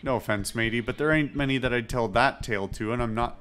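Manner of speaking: lightly voiced pirate accent; wary captain with a mild pirate accent; Edward Teach in pirate accent. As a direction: hold them off in a light pirate brogue. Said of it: "I don't know why I'm doing the accent".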